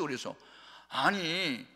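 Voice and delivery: normal talking voice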